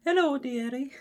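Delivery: squeaky high London granny voice, loud; hammed-up cockney old lady; mock London accent. Jokingly offering a London accent for the story, hammed-up. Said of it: "Do I need to do the London accent?".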